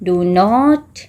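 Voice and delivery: words spaced out with long pauses; slow word-by-word dictation; dictating while writing. Shown as a demonstration. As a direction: dictate each word as it is written. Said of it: "तो I am writing here".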